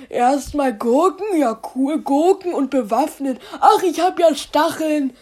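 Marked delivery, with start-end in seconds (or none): 3.6-5.2 long cackling laugh; laughing fit. Real, not acted. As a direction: crack up uncontrollably. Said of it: "deine Lache ist übelst cringe".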